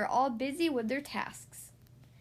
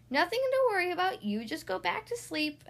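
put-on high little-boy voice, easing down; reassuring child; 7 semitones higher than usual. A narrator's reading. Luke sends Mom back to sleep, reassuring. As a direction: soothe Mom in a piping voice.

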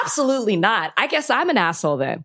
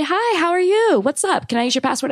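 mock friendly; 8 semitones higher than usual. Mock-friendly neighbor greeting.

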